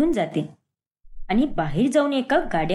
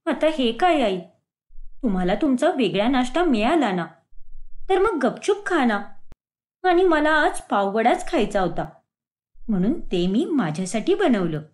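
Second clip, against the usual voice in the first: protesting daughter-in-law; 2 semitones lower than usual. Acted. Swati defends her breakfast to mother-in-law, mildly indignant. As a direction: answer back with mild indignation.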